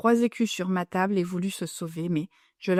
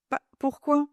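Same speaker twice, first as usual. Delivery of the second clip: mischievous; 6 semitones higher than usual. A narrator's reading. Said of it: "d'un air mutin".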